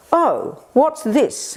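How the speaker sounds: oh, what have we here; mock discovery. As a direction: act out puzzling over something new. Acts out a puzzled first reaction.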